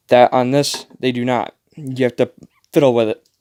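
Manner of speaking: out of breath, talking between breaths; winded, short of breath. Real, not acted. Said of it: "short of breath".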